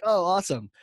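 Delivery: imitated admiration. Voicing an impressed audience member.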